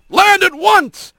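high, drawn-out bellowed command; bellowing. A narrator's reading. Sergeant ordering the fleeing hawk down, bellowing. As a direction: bellow the order slowly across the sky. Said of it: "as Sergeant Hawk's bellow".

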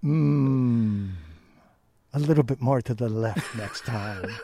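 low sultry voice, laughing through it; sultry female voice. Retold or imitated. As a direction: tease it low with a chuckle. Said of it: "a sultry female voice".

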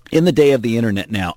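ordinary delivery

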